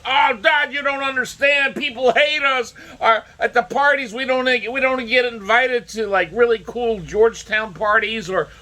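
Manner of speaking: very high mock spoiled-kid whine; whiny rich kids. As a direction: beg Daddy in a high, hammed-up child voice. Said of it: "they're probably going like".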